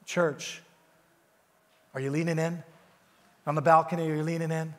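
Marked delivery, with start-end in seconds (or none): none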